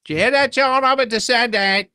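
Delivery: put-on high proud child; voicing excited twin. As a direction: show off to your brother. Twin boasting to John.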